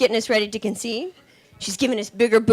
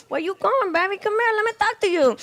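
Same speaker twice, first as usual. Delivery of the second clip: higher catcall; boyfriend calling out; 7 semitones higher than usual.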